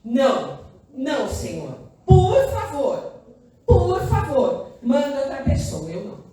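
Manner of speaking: a hammed-up plea to be let off; Moses begging. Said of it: "Moisés pediu". (súplica exagerada e lenta de Moisés)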